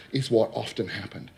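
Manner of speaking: ordinary talk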